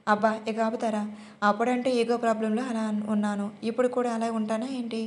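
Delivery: usual speaking voice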